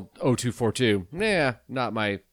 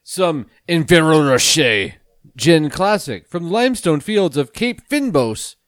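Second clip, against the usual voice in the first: drawn-out; 3 semitones higher, 5 dB louder than usual. Acted. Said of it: "you really milked that out".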